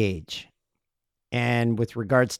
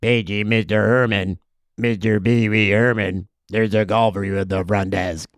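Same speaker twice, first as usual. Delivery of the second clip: a hint of a stiff low bellhop; bellhop page; 4 semitones lower than usual. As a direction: quote it like a wooden actor. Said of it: "Let me try that again".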